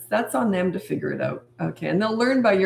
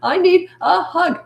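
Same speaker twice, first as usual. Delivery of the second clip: high, drawn-out, loud mock child demand; tantruming child; 11 semitones higher, 5 dB louder, slower than usual. Child demanding a hug from parent, mock tantrum. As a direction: imitate a child wailing out a demand.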